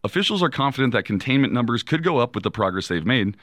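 steady newscaster read; news read. Acted. Co-host reading headlines to the host, news read.

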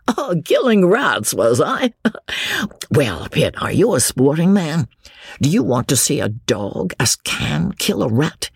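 lightly voiced merry drinker, a chuckle after the start; tipsy young James. Young man inviting his cousin to see a dog, lightly tipsy. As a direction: get carried away in tipsy enthusiasm.

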